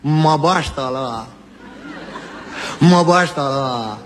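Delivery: slow Piedmontese drawl; mock Turin mafioso; Turin accent. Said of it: "Uno di Torino".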